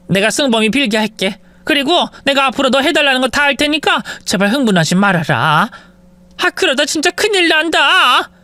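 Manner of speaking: high, anxious pleading; placating mother-in-law. Acted. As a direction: soothe her before disaster.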